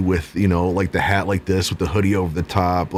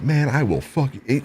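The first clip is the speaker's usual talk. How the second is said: higher-pitched mock threat; chirping tough guy; 7 semitones higher than usual. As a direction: imitate a small man talking tough. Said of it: "He's just chirping".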